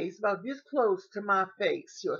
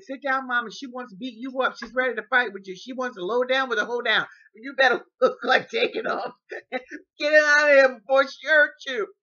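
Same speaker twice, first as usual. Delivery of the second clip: urgent warning; 5 semitones higher, 10 dB louder than usual. Retold or imitated. Daughter urgently warning mother.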